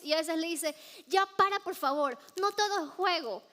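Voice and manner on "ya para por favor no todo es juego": annoyed sister. Retold or imitated. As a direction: scold him like a fed-up big sister. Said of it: "Se pone bravísima". (regaño de hermana mayor enojada, más agudo)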